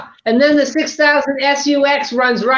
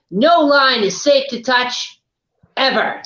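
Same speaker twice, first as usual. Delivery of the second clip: put-on solemn PSA old-timer. Imitating old safety man's slogan.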